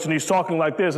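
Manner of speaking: a hint of a deep heroic voice; deep Thor voice. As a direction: drop into a mock deep hero voice. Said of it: "Thor's got this real deep voice".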